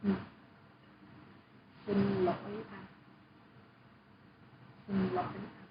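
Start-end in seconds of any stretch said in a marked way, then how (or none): 1.9-5.7 "lỗi" dipped down and up within the phrase; careful repeat, "lỗi" dipping then rising; southern dipping tone. Shown as a demonstration. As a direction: model the falling-rising "lỗi" before "anh". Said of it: "you need to go down and up".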